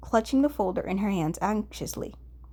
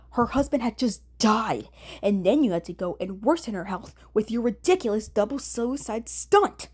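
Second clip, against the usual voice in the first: scolding. Acted. Kunikida scolding Dazai over the stunt, exasperated. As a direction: lay into him, mild anger building.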